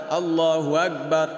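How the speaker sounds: আকবার said with a গ sound instead of ক; imitating the common mistake in আকবার; mock mispronounced takbir; wrong pronunciation. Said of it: "এটাকে অনেকে পড়ে আকবার".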